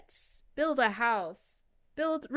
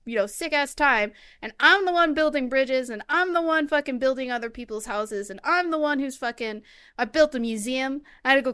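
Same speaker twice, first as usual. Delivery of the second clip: mock rant; 3 semitones higher, 3 dB louder than usual. Ranting at Tom Nook.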